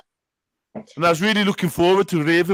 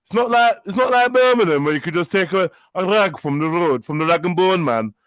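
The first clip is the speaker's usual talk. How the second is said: exaggerated Northern English accent; Manchester accent; 3 semitones lower than usual. Playing a girl heading back on the motorway, mock Manchester accent. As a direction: ramble on in a mock Manc voice. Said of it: "He's doing a Manchester accent".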